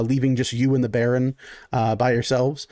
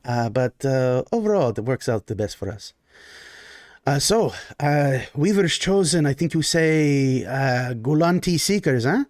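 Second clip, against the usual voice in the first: lightly voiced genteel Baron. GM as the Baron greeting his guests: lightly voiced genteel host.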